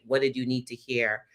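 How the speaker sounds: ordinary talk, nothing marked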